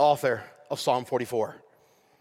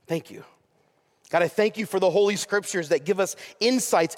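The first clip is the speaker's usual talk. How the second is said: prayer; 2 semitones higher than usual. Acted. Leads closing prayer.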